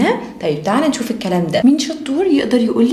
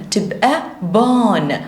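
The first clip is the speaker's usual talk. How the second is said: stretched out, sound by sound; slow phonics blend; slower than usual. Shown as a demonstration. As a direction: blend slowly for the kids. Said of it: "O، ن".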